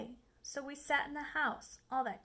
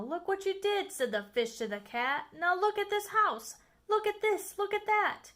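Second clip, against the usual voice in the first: higher, louder scolding; scolding fish; 6 semitones higher, 4 dB louder than usual. Acted. The fish scolding the Cat over the mess, higher and louder. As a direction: tell him off hard.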